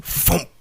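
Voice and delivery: high, short mouth-made impact; imitated thump. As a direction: make the thump of a landing. Imitates vampire hitting the windshield.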